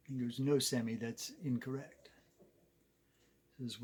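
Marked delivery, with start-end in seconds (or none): 0.4-2.1 understated mock-educated voice; university graduate. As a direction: correct him softly, like an educated graduate. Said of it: "goes off to university".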